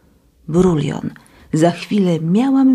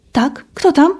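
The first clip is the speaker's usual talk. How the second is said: calling out; 9 semitones higher than usual. Acted. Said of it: "zawołała Katia".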